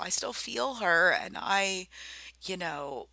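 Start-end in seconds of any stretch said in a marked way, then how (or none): 0.0-1.9 speaking of her late grandmother, getting emotional. Real, not acted. Choked up with feeling about her grandmother. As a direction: voice lifting with real emotion, held together. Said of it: "oh, I'm gonna get emotional".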